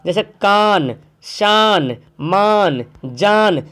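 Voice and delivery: कान शान मान जान ending on a fully sounded न; clear n. Shown as a demonstration. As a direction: close each word on a crisp न. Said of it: "नून आ रहा ना".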